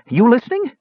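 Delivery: high-pitched little dwarf, questioning; Bupu. A narrator's reading. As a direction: check up in a tiny high voice. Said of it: "Bupu asked".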